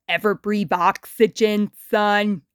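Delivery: put-on a worn-out celebrity talking down to a kid; Muddy Mud Skipper.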